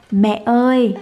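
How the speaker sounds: put-on slow clear prompt for the toddler; modelling a word for baby. Shown as a demonstration. Mother prompting her baby to say mama, clear and coaxing. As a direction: say it for the baby to copy. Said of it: "con nói".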